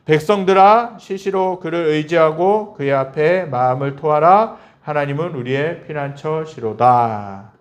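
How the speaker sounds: slow, measured reading of the psalm; scripture reading. Acted. Pastor reads the psalm aloud to the congregation, slow and solemn. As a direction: read the verse slowly and solemnly to the congregation. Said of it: "함께 읽겠습니다".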